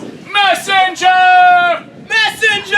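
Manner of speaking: very slow, drawn-out high call; king's cry. Acted. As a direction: summon the messenger across the stage. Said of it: "He cries".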